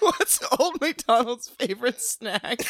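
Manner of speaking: laughing. Real, not acted. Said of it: "No, okay, for real".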